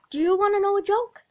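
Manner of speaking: eager nagging. Acted. Joker pestering a classmate for attention, fast and loud. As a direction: pester them with rising eagerness.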